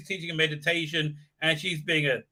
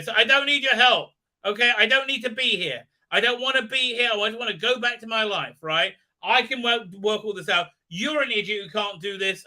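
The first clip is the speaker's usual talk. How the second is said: retold defiant retort; 6 semitones higher than usual. Voicing her defiant quarrel with him.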